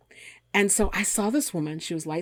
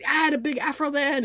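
quoting her; 9 semitones higher than usual. Retold or imitated. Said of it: "And she said".

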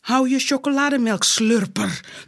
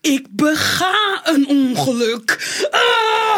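crying; slower than usual. Acted. Tickle attack, crying out.

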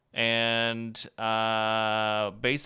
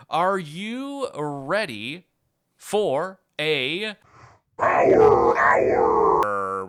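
hype announcer; 3 semitones higher, 7 dB louder, much slower than usual. Acted. Hyping the drinking game.

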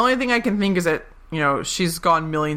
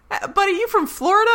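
Eleanor impression; 14 semitones higher than usual. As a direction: pitch up for a smug quip. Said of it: "Eleanor immediately goes".

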